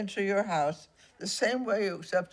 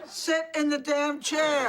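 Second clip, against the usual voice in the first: high, loud, fed-up command; exasperated shouted order; 12 semitones higher, 5 dB louder than usual. Acted. Ghost losing patience over the chair, exasperated high shout. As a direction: drop the spookiness and yell the order.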